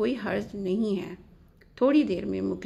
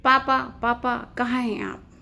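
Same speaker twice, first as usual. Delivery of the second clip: high, loud call for papa; loud shouting; 4 semitones higher, 6 dB louder than usual. A narrator's reading. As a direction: shout out for your father, voice raised. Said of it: "ज़ोर से चिल्लाते हुए बोली". (ज़ोर से चिल्लाकर पुकारते हुए)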